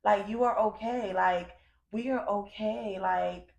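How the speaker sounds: slow, gentle reassurance to her younger self; tender to inner child. Retold or imitated. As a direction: soothe the little girl inside, slowly. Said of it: "talking to that little girl".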